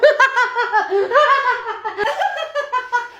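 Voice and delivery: high, drawn-out laugh; high burst of laughter. Acted. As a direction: laugh long and high, trailing off. Mock laugh closing the office scene.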